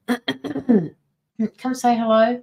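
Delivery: sing-song slow invite to the chat; drawn-out greeting. Acted. Streamer calling viewers to say hello, very slow and drawn out. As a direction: stretch every word of the call, very slow.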